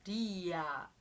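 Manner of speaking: Ria with the a opening up; rising diphthong. Shown as a demonstration. Teacher showing the rising sound in livraria. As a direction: let Ria lift. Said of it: "ele acaba subindo o som".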